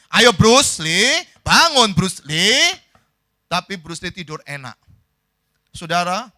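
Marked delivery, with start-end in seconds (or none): 0.1-2.7 loud, drawn-out call with rising ends; urgent calling out. Acted. Friend banging on Bruce Lee's door, calling loudly. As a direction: stretch the name out, higher and louder. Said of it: "lalu dia gedor-gedor pintunya".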